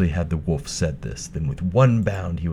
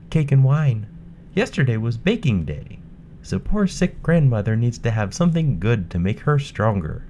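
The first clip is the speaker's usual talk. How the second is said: put-on bright, high young girl; a sweet, polite little girl; 6 semitones higher than usual. Girl answers wolf.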